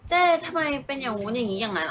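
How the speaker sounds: lightly mock his anxious fussing; worried partner. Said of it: "แต่หยงเขาจะเป็นแบบ". (เลียนเสียงแฟนที่กังวลเกินเหตุ)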